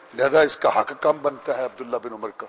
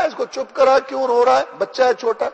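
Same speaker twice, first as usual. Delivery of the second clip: high, loud stern rebuke; a ruler telling off a mother over her crying child, loud and stern; stern scolding; 9 semitones higher, 5 dB louder than usual. Retold or imitated.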